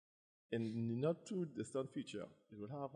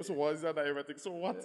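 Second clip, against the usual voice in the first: dismissive doctor; 4 semitones higher, 5 dB louder than usual. Retold or imitated.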